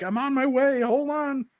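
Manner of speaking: high-pitched, hammed-up protest; mock-flustered reply. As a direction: answer a nag in a squeaky put-on pitch. Acted reply to Karen's nagging.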